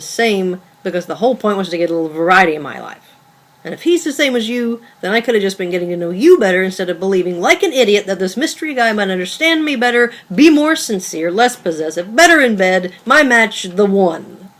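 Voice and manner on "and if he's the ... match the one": building frustration. Acted. Girlfriend building angry list.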